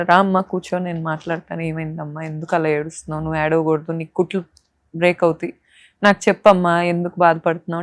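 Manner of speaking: kind doctor soothing. Retold or imitated. Kind doctor calming a crying new mother, softly. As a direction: comfort her softly like a caring doctor. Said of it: "ఆ doctor చాలా మంచి వ్యక్తి".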